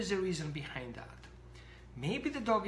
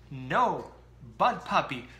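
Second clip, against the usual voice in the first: louder, stern no to the puppy; stern yell; 2 semitones lower, 6 dB louder, slower than usual. Retold or imitated. Owner yelling sternly at puppy with sock, louder. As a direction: bark the command at the puppy sternly. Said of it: "yell at your dog with stern voice".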